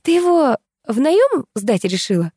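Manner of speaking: high, slow snide question. A narrator's reading. Katya needles her friend about Ilyas, snide. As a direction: draw it out with mocking relish. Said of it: "принялась ехидничать Катя".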